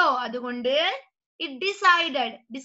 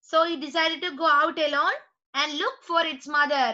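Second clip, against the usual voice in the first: story read-aloud; much slower than usual. Acted. Reads the story to class.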